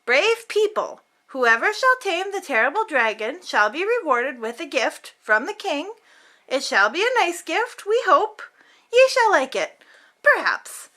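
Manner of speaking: pin hopes on "we hope" and "perhaps"; proclamation with doubts. Acted. Villagers' sign pleading with hopeful rising asides.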